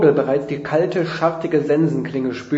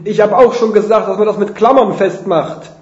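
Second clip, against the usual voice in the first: raised, higher calling voice; Rufen von unten; 5 semitones higher, 5 dB louder than usual. A narrator's reading. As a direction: call up to someone above. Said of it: "Andreas ruft von unten". (von unten hochgerufen)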